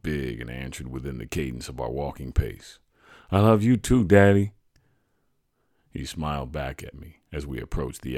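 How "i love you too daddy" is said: a lightly voiced happy child, higher; young boy. A narrator's reading. Boy answering his father's love, lightly voiced child. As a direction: answer sweetly like a small kid.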